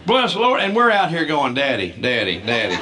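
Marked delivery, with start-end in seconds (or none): 1.5-2.8 family whispering to dad. Retold or imitated. Family hushing dad from crowd.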